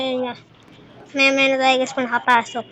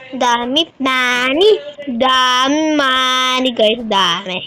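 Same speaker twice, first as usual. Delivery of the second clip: excited; 4 dB louder, slower than usual. Real, not acted. Excited at lots of money.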